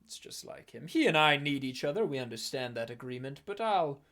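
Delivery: slow, scornful villain voice; dismissive villain. Acted. Villain scoffing at the index, slow and scornful. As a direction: brush off the index with contempt.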